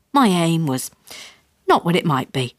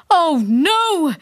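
mild shout; 10 semitones higher than usual. A narrator's reading. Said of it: "shouted Dad".

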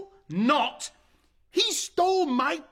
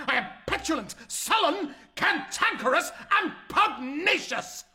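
building fury; 3 semitones higher than usual. Acted. Son rants at his mother, rising fury. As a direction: pile on each word hotter than the last.

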